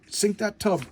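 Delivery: U-boat commander ordering his crew, slow and drawn out; mock commander order. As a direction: savour the order like a gloating captain. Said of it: "He goes".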